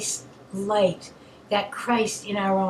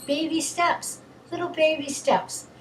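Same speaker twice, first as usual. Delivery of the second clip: higher, gentle cooing lilt; 6 semitones higher than usual. Real, not acted. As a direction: coo it like to an infant. Tender image of baby steps.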